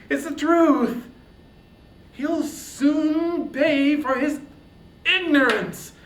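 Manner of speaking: high, loud, raging hero; furious outcry. Acted. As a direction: Achilles shouting at the goddess in fury. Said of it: "his winged words went flying".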